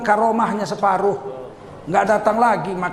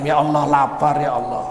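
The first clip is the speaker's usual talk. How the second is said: crying out; 6 semitones lower than usual. A narrator's reading. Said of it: "menangislah Siti Maryam".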